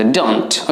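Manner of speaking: DON'T as one smart syllable; contracted don't. Shown as a demonstration. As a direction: run do and not together into "don't". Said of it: "স্পিকিংয়ে বলার সময় একটু smartly don't বলবেন".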